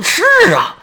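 high, startled burst; sudden realization. Acted. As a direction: snap awake to the idea. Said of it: "如梦初醒". (恍然大悟地高声惊呼)

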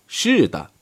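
a contained, emphatic cry of assent; forceful shout. A narrator's reading. Audience answering the speaker in unison, understated forceful shout. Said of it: "强有力的喊道".

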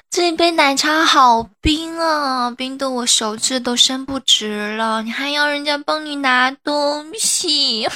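coquettish whimper of complaint; whiny near-tears pout. Acted. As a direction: whine sweetly as if about to cry. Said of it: "不哭，不哭".

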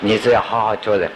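ordinary talk

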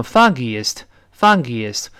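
"foggiest" joined up but still fah-gee-ist; linked pronunciation. Shown as a demonstration. Teacher joins the parts for students, "foggiest" as linked fah-gee-ist. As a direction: link "foggiest" smoothly in three syllables. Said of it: "连到一块儿就读成".

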